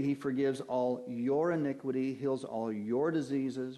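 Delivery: each "your" picked out with emphasis; stress on YOUR. Shown as a demonstration. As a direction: lean on "your" both times. Stressing singular pronouns of psalm.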